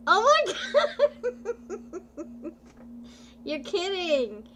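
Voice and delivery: loud, high shrieks breaking into laughter; delighted disbelief. Real, not acted. Host hears Jeff met somebody on vacation, delighted disbelief. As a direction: exclaim it in thrilled shock, laughing. Thrilled reaction to viewer's romance news.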